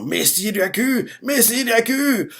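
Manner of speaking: slow, high mock wail; rising lament without much volume; tearful cry. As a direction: stretch it out like mourning followers. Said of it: "Ils crient ça en pleurant".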